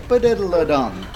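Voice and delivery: "ba-diddle-a-dum" as a rhythm, "ba" short just before the beat; quick "ba" leading into "diddle-a-dum"; short pickup note. Shown as a demonstration. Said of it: "get the short note just before the beat".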